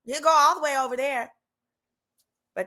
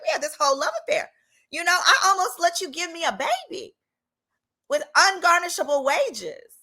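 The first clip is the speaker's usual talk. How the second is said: higher, fast, laughing through the words; laughing complaint; 7 semitones higher than usual. Retold or imitated. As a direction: laugh as you scold him. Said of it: "I was like".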